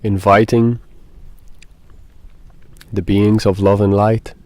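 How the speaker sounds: unhurried meditation guide, falling phrase ends; guided meditation. Acted. Guide invites softening and beings of light, guided meditation. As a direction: let each phrase settle, with long pauses.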